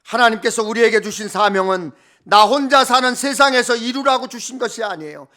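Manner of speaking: ordinary talk, nothing marked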